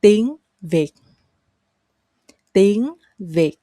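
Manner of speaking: "Tiếng" rising, "Việt" dropping abruptly; up, then abrupt drop. Shown as a demonstration. Teacher models the word Vietnamese, "Tiếng" up, "Việt" abruptly down. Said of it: "go up and then go down very abruptly".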